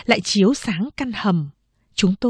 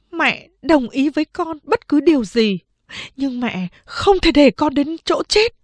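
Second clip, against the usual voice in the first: lightly voiced firm mother; 7 semitones higher than usual. Mother refuses firmly.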